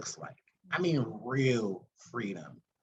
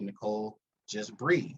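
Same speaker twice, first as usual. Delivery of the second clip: calm reassurance; 4 semitones lower than usual. Shown as a demonstration. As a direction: say it gently like a friend who gets it. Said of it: "You would have heard my voice like that".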